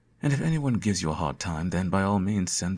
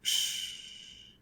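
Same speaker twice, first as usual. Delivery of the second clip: whispered shush; 8 dB quieter than usual. Acted. Silencing the hero.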